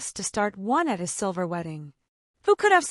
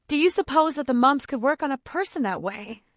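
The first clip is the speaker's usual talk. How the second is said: higher, louder mild wail; a lightly voiced fretful wail; 7 semitones higher, 5 dB louder than usual. A narrator's reading. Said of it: "wailed Cousin Stickles".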